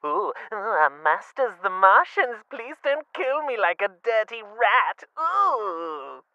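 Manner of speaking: high, whimpering mock plea to the Martians; mock cowering Englishman. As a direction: simper it out like a terrified toff. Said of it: "he's like".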